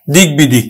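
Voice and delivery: দিক বিদিক said plainly with the ব sounded; pronounced example. Shown as a demonstration. Teacher modelling দিক বিদিক to students. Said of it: "তাহলে আমরা উচ্চারণ করি কিন্তু".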